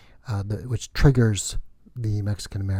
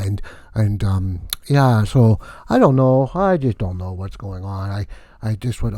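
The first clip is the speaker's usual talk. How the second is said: hammed-up comic vampire count; lightly voiced comic Count Vlad; Count Vlad character; 7 dB louder than usual. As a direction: play the wacky vampire count, boastful and loose. Held Count Vlad comedy character voice.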